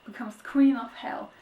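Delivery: dramatic reading, queen stressed. Shown as a demonstration. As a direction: punch queen and let hell fall. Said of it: "Say it like that".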